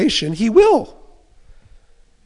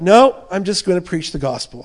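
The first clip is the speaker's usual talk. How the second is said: louder, firm "No" up front; firm declaration; 6 dB louder than usual. Acted. Preacher voicing Paul refusing temptation, firm and louder. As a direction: plant your feet on "No". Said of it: "And Paul's like".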